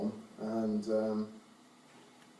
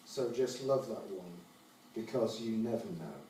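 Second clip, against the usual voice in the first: poetry reading. Acted. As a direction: read the poem in measured phrases, each falling away at the end. Reads own poem aloud.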